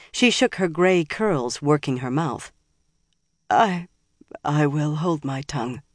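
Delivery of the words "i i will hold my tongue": dejected. Acted. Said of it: "she said dejectedly".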